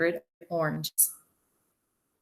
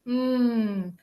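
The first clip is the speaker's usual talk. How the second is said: long, higher mmm; hug squeeze sound; 5 semitones higher than usual. A narrator's reading. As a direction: hum through a big squeeze. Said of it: "and a big hug".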